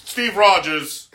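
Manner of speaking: carnival barker. Pretend. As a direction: present the hero like a carnival barker. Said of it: "old school carnival guy".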